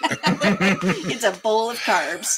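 whispered through laughter, slow; self-mocking joke about carbs, laughing whisper. Real, not acted. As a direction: laugh out the words under breath.

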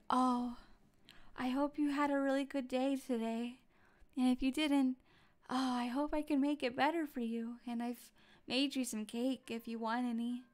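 like a caring mom wishing you a good day; mommy voice. Shown as a demonstration. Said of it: "Like, like that voice?".

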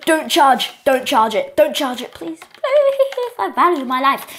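urgent repeated begging; mock-panicked plea; playful pleading. Begging an opponent not to charge.

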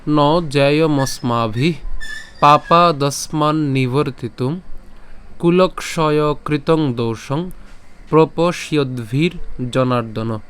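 slow, measured chanting of the shloka; slow Sanskrit recitation. Shown as a demonstration. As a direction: recite each word slowly and clearly. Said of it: "তো আজকের শ্লোকটি হচ্ছে". (ধীর লয়ে শ্লোক পাঠ)

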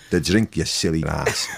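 low, slow mock-posh put-down; lightly voiced singer scolding, slow and low; imitating a singer. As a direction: drop the voice and drawl it slowly like a singer teasing. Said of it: "he went".

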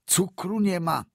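high, stress on "nie" in exasperation; exasperated doctor. A narrator's reading. Doctor reacts to there being no sugar, stressed "nie". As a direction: drop it with disbelief.

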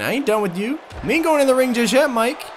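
high, put-on wrestler taunt; gruff wrestler voice. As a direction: talk trash like a wrestler. Voicing the wrestler taunting Mikey.

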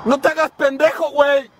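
calling out. Real, not acted. Yelling up at a pole worker.

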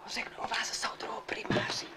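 hushed whisper. Acted. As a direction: whisper the promise. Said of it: "Tak proč vlastně šeptáme?".

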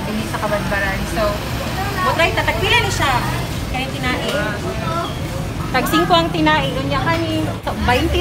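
muffled behind surgical mask; speaking with covered mouth; through a face mask. Real, not acted. Seen 1: Green surgical mask covers his nose and mouth while talking.

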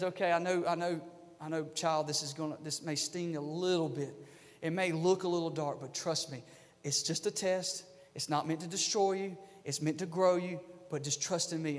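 put-on God soothing a hurting child, softly; quiet, tender promise to trust him; gentle reassurance. God gently speaking to his child.

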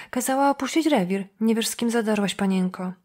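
ordinary delivery, nothing marked

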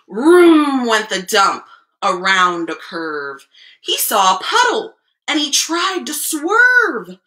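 expressive storyteller with stretched key words; picture-book reading. A narrator's reading. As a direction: read the rhyme aloud to small children. Reads picture book to children.

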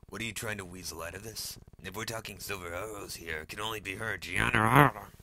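building to a loud cry of the name; rising excitement. Acted. Hoarse voice names the culprit.

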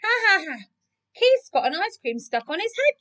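high, teasing ha-ha-ha; mock laughter carried into a high taunt; chuckling. A narrator's reading. The other cats teasing Keith, chuckling. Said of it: "chuckled the other cats".

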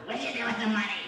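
put-on official demanding answers; IRS caller impression. IRS agent presses preacher about money, imitated demand. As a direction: mimic the tax caller pressing the question. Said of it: "That's how she sounded".

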